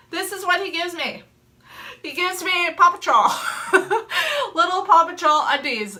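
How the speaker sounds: laughing while telling it; real laughter through the words. Real, not acted. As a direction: crack up over the undies. Laughing at husband's mistake.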